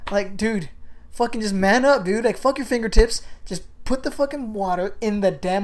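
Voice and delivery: fed-up shout at a whining soldier; retold yelling. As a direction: chew him out, man up, dude.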